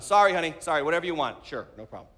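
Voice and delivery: mock meek backing down, trailing to a low mumble; classic husband. Husband giving in to his wife, meek placating. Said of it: "that's classic husband".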